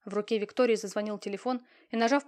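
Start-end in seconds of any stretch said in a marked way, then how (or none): none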